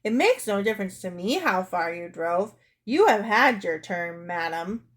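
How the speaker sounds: curt, dismissive retort; emphatic, slowing put-down; disagreeable. Acted. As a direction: lay down the law disagreeably. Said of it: "said in a very disagreeable way".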